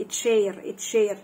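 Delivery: "اتشير" starting with t joined to sh. Shown as a demonstration. Teacher giving an example of CH, "اتشير" with t-sh. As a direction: sound the t before sh in "اتشير". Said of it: "ته مع شين".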